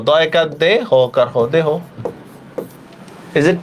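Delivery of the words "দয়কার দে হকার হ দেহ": দেহ taught with a rounded final o; pronunciation spelled out. Shown as a demonstration. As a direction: sound out দেহ as "de", "ho", then whole. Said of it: "উচ্চারণটা ও দিয়ে দিব".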